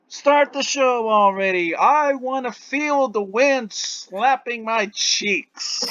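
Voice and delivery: high, drawn-out little goblin; small high-pitched creature voice; tiny goblin voice. Acted. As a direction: squeak it out like an eager tiny goblin. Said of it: "you can hear a tiny voice".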